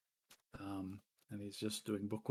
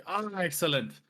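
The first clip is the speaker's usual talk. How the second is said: minotaur boss; 7 semitones higher than usual. Acted. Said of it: "He's like".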